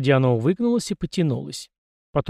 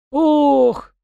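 high drawn-out dismayed "ooh"; loud sorrowful oh of the yard spirit; sad groan; 13 semitones higher, 6 dB louder than usual. A narrator's reading. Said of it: "тотчас погрустнел мужичок".

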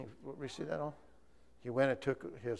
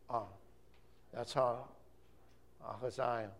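ordinary talk, nothing marked

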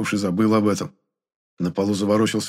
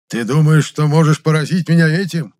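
louder, higher roar; bellowed taunt; 6 semitones higher, 5 dB louder than usual. A narrator's reading. Sorcerer roars at the hero before choking him. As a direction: roar it as you attack. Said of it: "завопил Мефодий".

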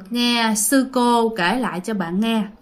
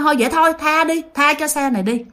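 1 ghosts clamoring; 3 semitones higher, faster than usual. Acted. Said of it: "nhao nhao nhao".

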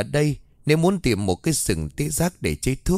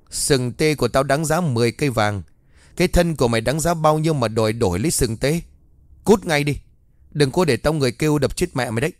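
furious threats; 3 semitones higher than usual. Acted. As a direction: drive the beggar off with rage. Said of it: "ông lại tỏ ra tức giận".

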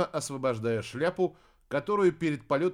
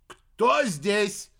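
loud, sharp bark; barked question; 7 semitones higher, 7 dB louder than usual. A narrator's reading. Startled witch barks at the bushes. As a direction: snap it out in alarm. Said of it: "рявкнула Аримана".

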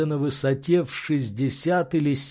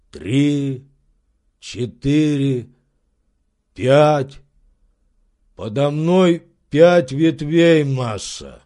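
slow count that grows louder; counting servant; 4 dB louder, much slower than usual. Acted. Servant counting branches for his master, growing louder. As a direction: count the branches one by one, building up.

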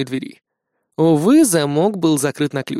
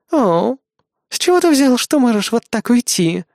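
gloating smirk; 8 semitones higher than usual. Acted. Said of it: "Злорадно усмехнулась она".

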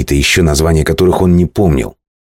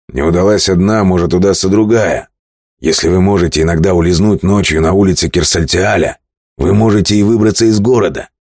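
brisk, raised captain voice; sea captain voice; 4 semitones higher than usual. Acted. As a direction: argue like a bold sailor. Male captain voiced higher. (голос капитана)

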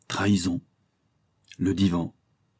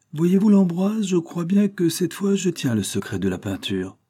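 put-on old painter musing; 4 semitones higher than usual. Old master talks of his art.

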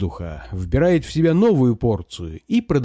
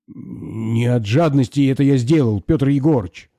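a touch of a trembling plea. Acted. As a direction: justify yourself timidly. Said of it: "оправдывается дрожащим голосом". (оправдывается чуть дрожащим голосом)

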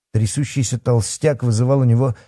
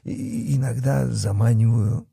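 high, halting coward; stammering with fear; 6 semitones higher than usual. A narrator's reading. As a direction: catch on first syllables, babbling fearfully. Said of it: "заикаясь от страха".

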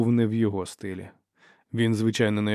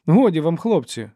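high, loud peacemaker's appeal; friendly pleading; 7 semitones higher, 8 dB louder than usual. A narrator's reading. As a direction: plead with them to stop, amiably. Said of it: "мовив він дружним м'яким голосом". (дружнє високе вмовляння)

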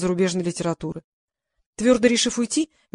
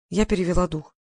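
plain reading voice

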